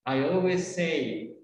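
always and say joined on one S; shared S. Shown as a demonstration. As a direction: run always straight into say with a single S. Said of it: "La misma S de always te sirve para decir say".

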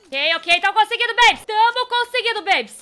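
loud, high celebration; excited cheering. Real, not acted. Gamer tells viewers they are managing it, excited cheering. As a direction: cheer it out to your fans.

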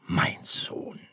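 schmunzelnd. Acted. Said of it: "schmunzelte sein Vater".

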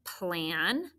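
"plan" said alone, slightly drawn out; first syllable isolated. Shown as a demonstration. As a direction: say "plan" as the first piece of planet. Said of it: "The first syllable is".

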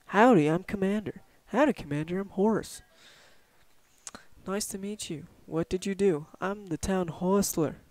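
lightly voiced cowboy townsman introducing himself; a hint of friendly frontier trader; western horse seller.

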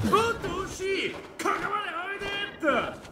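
fast teasing, sing-song dodge; playful jeer, quick; mocking taunt. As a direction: taunt him while slipping away. Dodging and taunting opponent.

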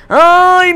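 high, loud "ay" of exasperation; drawn-out wail. Real, not acted. Player in the middle of a match, exasperated wail. Cries out while playing.

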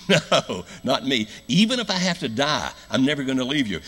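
loud, high-pitched insistence; impassioned refusal, acted out loud; vehement protest. Acts Peter's vehement protest to Jesus.

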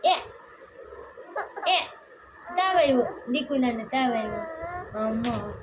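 hammed-up lament, slow at the end; mock wail. Mother mock wails to her baby about the fever, hammed-up lament. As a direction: pretend to cry over her fever, dragging it out.

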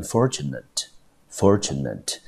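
fortunate with stress on FOR, middle as -chu-; careful teacher pronunciation of fortunate; saying fortunate. Shown as a demonstration. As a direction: model fortunate twice for the class. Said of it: "整个字我们就念成fortunate".

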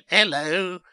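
high, stuttering little seed; timid high-voiced stutter; nervous stammer. A narrator's reading. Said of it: "stammered Bert".

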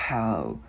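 "How" starting with a push of breath on the H; airy H. Shown as a demonstration. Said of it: "đưa cái hơi ra". ("How", đưa hơi ra ở âm H)

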